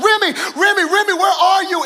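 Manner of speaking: retold calling from other parents. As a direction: shout for the lost girl across the field. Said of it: "they started shouting out".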